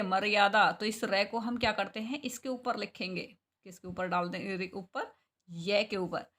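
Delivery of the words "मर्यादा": मर्यादा with a half r gliding into य; half r sound. Shown as a demonstration. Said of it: "इसमें आधे रै की साउंड आ रही है".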